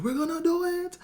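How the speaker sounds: imitated dad in a very high falsetto yell; high-pitched, hammed-up cheering shriek; excited screaming. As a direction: squeal it in mounting hope. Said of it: "my dad just screaming".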